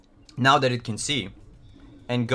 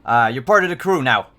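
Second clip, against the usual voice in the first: robot voice; 6 dB louder than usual. Acted. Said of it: "it says".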